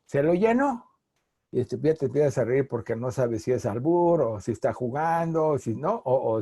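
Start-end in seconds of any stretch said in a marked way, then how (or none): 0.1-0.9 gas attendant quote. Retold or imitated. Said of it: "y el de la señora".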